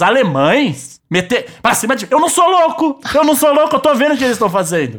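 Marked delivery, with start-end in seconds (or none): 2.1-5.0 indignant outburst. Acted. Mock outburst at German rivals.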